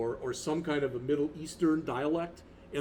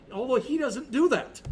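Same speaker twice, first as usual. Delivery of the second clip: high hammed-up DJ voice over music; disc jockey voice; 10 semitones higher, 3 dB louder than usual. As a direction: keep the mock DJ energy going. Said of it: "talk like this".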